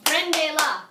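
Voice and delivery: "Prendela" in three even, separate beats; clapped-out syllables. Shown as a demonstration. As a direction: model "Prendela" beat by beat for the class. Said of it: "Clap it out".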